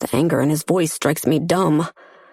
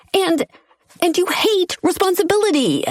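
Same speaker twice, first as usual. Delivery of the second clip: voice cracking high; 12 semitones higher than usual. A narrator's reading. Chase's voice cracking in argument.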